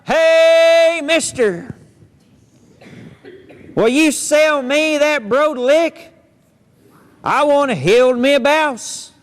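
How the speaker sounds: small pig yelling up to a stranger; hollering pig. Acted. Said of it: "he hollers out".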